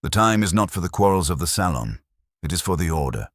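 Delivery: lightly voiced Belgian detective, firm and carrying; carrying, bell-like. Detective quiets the quarrelling guests, lightly voiced, firm. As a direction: let it ring out over the murmur without shouting. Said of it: "it carried like a bell".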